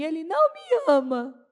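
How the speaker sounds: put-on, high, loud, tearful wailing through tears. Retelling crying to the bishop bispa: imitating own past crying. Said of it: "eu cheguei chorando pra bispa e falei assim".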